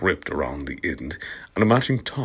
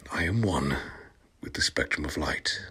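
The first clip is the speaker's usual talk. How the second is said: mock mystic; 4 semitones lower, 9 dB quieter than usual. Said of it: "she said".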